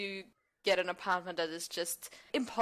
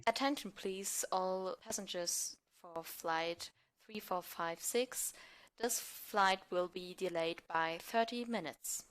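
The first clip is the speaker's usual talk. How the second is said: lightly voiced, slowed airport announcer; flight announcement; 4 dB quieter than usual. Shown as a demonstration. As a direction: read it like a tannoy notice. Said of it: "your best announcement of a plane".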